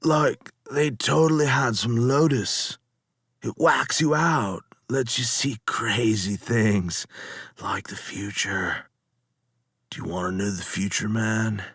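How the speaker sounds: laid-back surfer dude, words sliding together; slurred stoned dude. Acted. Lotus eater reassuring the captain, slurred stoner voice. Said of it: "Their speech was slurred".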